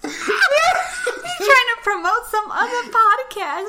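loud laughter through the words; teasing the cohost for naming the wrong podcast; laughing. Real, not acted. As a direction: laugh while teasing a slip.

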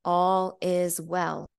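slow, calm, distant voice from above; voice of God. Retold or imitated. The divine voice tells her to let her body heal, slow and calm. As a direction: let each word land slowly, like a divine command. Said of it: "it sounded like the voice of God".

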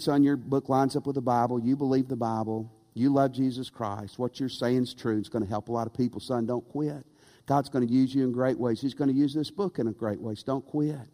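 calm him down like a loving dad; reassuring father. Retold or imitated. Father encourages son not quit.

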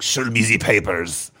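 slow, lightly put-on German demand; understated German officer imitation; German accent. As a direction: draw it out with a mock German accent. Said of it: "German accent. I was expecting, like".

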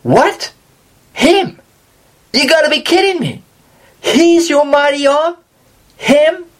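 high, scoffing What? Him?; mock incredulous onlookers doubting the servant; incredulous disbelief. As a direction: scoff as if it can't be true. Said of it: "everyone is thinking".

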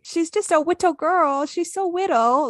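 put-on high-pitched cutesy baby talk. Owner giving her little dog's voice, baby talk. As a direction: coo it high, as to a tiny pet. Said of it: "like, baby talk with Annie".

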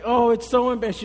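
high, loud mock embarrassment; hammed-up teenage mortification; mortified teen. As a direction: groan about your mom like a teenager.

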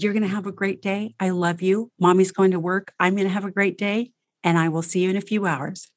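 put-on easy, light reassurance to the child; calm mom leaving for work; calm goodbye. Shown as a demonstration. Coach models calm goodbye.

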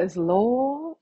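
words slurred by braces; speaking with braces. Real, not acted. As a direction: struggle through braces on teeth. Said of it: "I can't say that with my braces on".

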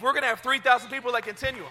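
loud, high faith declaration; shouted vow of faith; rallying shout. Real, not acted. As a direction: proclaim it to the crowd. Rallying the church to believe.

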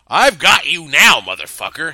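loud, high cackling taunt; mad laughing taunt. Acted. Captor gloats at his hostage, laughing madly and loud. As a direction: crow it like a madman. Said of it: "he laughed like a madman".

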